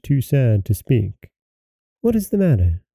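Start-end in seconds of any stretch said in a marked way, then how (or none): 2.0-2.8 higher-pitched, gentle inquiry; kindly concern. A narrator's reading. Princess asks her sad conductor what is wrong, kindly. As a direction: ask with a touch of kindness. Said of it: "she said in the kindest way".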